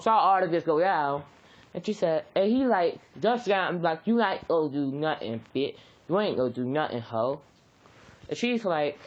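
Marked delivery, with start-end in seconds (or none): 4.1-7.4 low, sneering taunt, getting lower; low mocking street taunt; taunting bully. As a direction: talk down to her like a punk. Bakugo taunting Inko in story.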